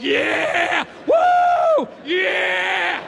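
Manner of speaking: high, loud whooping yeah; sugar rush cheer. Acted.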